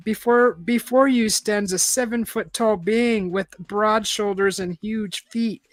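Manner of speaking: slow, measured read-aloud narrator; story narration. A narrator's reading. Reader describing a huge being, slow narration.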